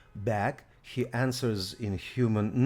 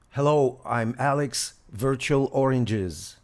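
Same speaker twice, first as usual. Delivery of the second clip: loud and clear; 2 semitones higher, 6 dB louder than usual. Real, not acted. Introducing himself to voice app.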